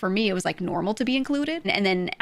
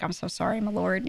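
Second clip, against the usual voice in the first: mock humble apology; 5 dB quieter than usual. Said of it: "they'll be like".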